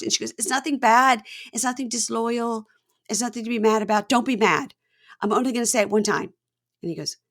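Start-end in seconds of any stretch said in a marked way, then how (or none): 0.4-6.3 higher-pitched anxious reassurance; plead, imitating someone nervous to confess; acted pleading. Bride begs groom not to be mad, mock-anxious pleading.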